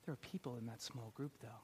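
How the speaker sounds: normal talking voice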